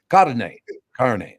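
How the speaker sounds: carne as "kar-nay", Spanish vowels; mock Spanish "carne". Shown as a demonstration. Host mocking the carne ad with a Spanish carne. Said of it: "how you pronounce carne".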